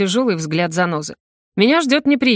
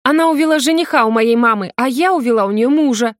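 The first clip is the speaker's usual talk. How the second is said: high, louder bitter anger; angry; 5 semitones higher, 4 dB louder than usual. A narrator's reading. Akimova reveals her grudge, angry. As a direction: hurl it at everyone. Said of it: "произносит со злостью".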